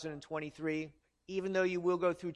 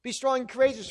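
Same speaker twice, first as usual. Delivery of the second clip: encouraging; 5 semitones higher, 5 dB louder, faster than usual. Acted. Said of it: "God was encouraging Joshua to be strong".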